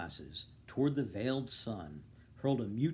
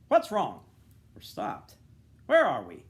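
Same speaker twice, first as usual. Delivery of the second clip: startled questions; 8 semitones higher, 11 dB louder than usual. Acted. Carriage suddenly stops.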